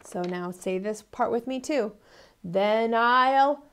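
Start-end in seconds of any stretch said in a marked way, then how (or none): 2.4-3.6 builds from loud to a huge high roar; wolf threat building. Acted. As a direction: huff up to a booming threat. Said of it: "called the wolf".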